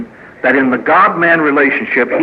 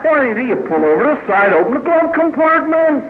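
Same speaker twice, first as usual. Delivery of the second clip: mock bewilderment; 11 semitones higher than usual. Mock puzzled question about unused maps.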